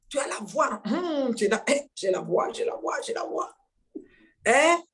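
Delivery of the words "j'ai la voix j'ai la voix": mock whisper. Mocking repeat of the praise.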